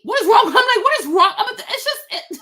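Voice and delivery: can't believe what she's seeing; exasperated laugh at the names; laughing disbelief. Real, not acted. Exasperated outburst about names.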